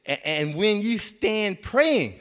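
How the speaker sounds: slow, drawn-out reading; slow scripture quote. Acted. Pastor reading the next verse to the church, slow and solemn. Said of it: "It says".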